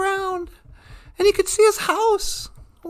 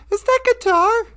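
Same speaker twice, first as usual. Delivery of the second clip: higher, wondering question; curious surprise; 6 semitones higher than usual. Acted. Teddy bear hearing music far off, curious surprise. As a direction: perk up at a sound.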